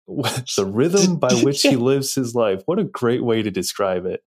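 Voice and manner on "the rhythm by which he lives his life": slow, amused repeat of the line; relishing the quote, chuckling; laughing. Real, not acted. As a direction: savor the phrase through a laugh. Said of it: "That is a really great".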